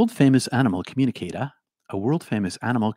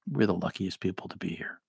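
whisper; 6 dB quieter than usual. Real, not acted. Aside to viewers.

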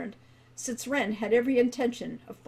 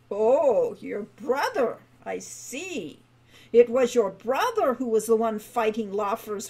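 lightly voiced grumpy old dwarf; a hint of an old man's grumble; voiced crotchety old guildmaster; 3 dB louder than usual.

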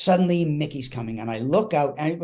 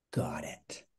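very soft, low reply; meek acceptance; 10 semitones lower, 11 dB quieter than usual. Retold or imitated. Young actor accepts the star's rules, meekly hushed. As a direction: answer small and low. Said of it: "And I was like".

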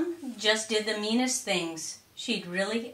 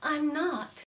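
Thelma voice; 7 semitones higher than usual. A narrator's reading. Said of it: "But Thelma said".

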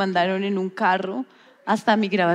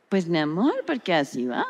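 1 makeup artist imitation; 4 semitones lower, 3 dB quieter than usual. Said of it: "Porque la imitas así".

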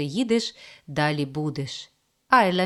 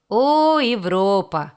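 mocking scoff; 3 semitones higher, 6 dB louder, slower than usual. A narrator's reading. Mocking exclamation at the table.

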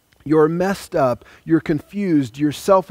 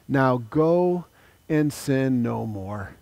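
tender command; slower than usual. Acted. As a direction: send her off gently with love. Jesus sends woman away.

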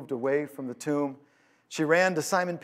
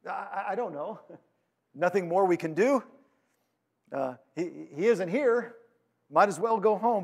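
hesitant, slightly raised-pitch helpless shrug; resigned bewilderment; 3 semitones higher than usual. Acted. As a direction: play a stumped follower giving up, halting. Followers giving up and going home.

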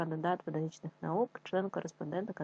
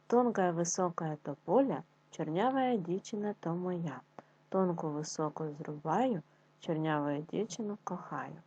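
poem reading. Acted. Reads a folk poem.

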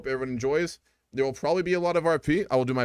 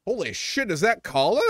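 sudden high delighted surprise; surprised; 6 semitones higher, 4 dB louder than usual. Real, not acted. Spots an old friend in chat.

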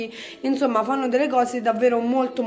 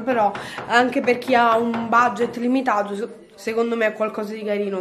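talking through hiccups; hiccupping between words. Real, not acted. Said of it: "Scusate questo singhiozzo".

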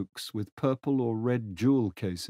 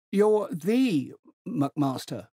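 put-on higher, hearty voice of an old general; 8 semitones higher, 3 dB louder, much slower than usual. Old General hails Tegens across the platform, hearty and high. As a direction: boom out a jovial old soldier's greeting.

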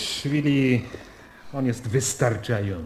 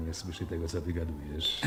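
dropping the voice, softer and softer; hushed warning; 7 semitones lower, 12 dB quieter than usual. Acted. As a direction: lower the voice so no one overhears. Warning about security service overhearing. (przyciszone ostrzeżenie, coraz ciszej)

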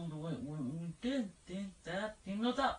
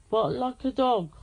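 loud command; 3 semitones higher, 11 dB louder than usual. Real, not acted. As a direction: clear loud order to the speaker. Commanding Alexa loudly.

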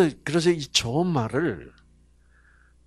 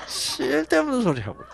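Gyeongsang husband repeat; 10 semitones higher, 6 dB quieter than usual. Retold or imitated. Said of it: "경상도 남자들은 뭐라 그러게".

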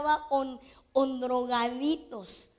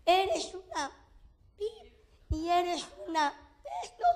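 mother's insult; 5 semitones higher than usual. Retold or imitated. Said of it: "lo que venía mi mamá a hacer".

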